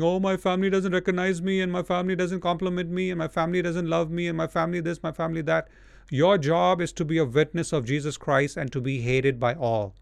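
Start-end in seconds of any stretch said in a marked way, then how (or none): 0.0-5.7 a slightly raised, whiny complainer's voice; mock whining. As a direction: mimic a self-pitying churchgoer, lightly. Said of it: "Stop whining and crying and complaining".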